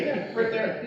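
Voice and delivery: high quote with laughter in it; laughing reply. Retold or imitated. Son imitating his kid self answering drivers, laughing. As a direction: giggle through the answer.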